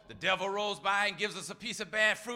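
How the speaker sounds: ordinary talk, nothing marked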